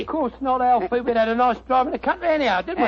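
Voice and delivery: light cockney sidekick voice; a hint of cockney workman; cockney disguise. Sidekick answers his mate in a light cockney. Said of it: "That's rhyming slang".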